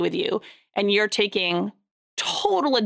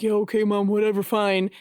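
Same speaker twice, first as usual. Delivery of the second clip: put-on teen brush-off. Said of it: "that, you know, teenager look on his face".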